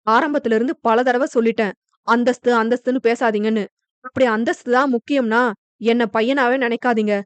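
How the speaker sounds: firm, fast mild anger at his father; harshly. Acted. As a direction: push back hard, quick and firm. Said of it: "என கடுமையாக கூறிவிட". (கடுமையாக, வேகமாக)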